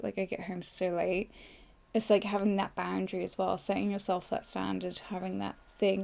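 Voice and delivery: ordinary delivery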